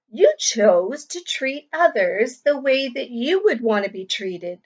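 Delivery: clear, lively storybook reading to a class; reading to children. A narrator's reading. Teacher reading a picture book to the class, lively and clear. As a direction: read the story aloud to young pupils.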